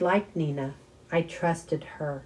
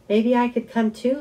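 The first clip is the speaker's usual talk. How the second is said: hopeful plea; 7 semitones higher, 5 dB louder than usual. A narrator's reading. Arthur hopefully asks to come.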